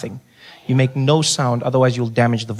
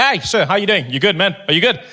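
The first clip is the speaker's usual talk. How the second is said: shop assistant; 4 semitones higher than usual. Acted. Shop assistant greets him brightly.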